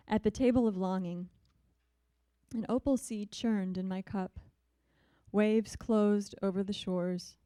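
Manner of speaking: calm recital, lines spaced out; poem reading. Acted. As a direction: let the images settle one by one. Reads her Ars Poetica.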